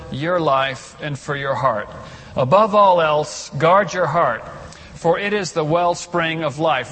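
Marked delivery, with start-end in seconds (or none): 2.4-6.9 loud recitation. Shown as a demonstration. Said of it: "Read it with me".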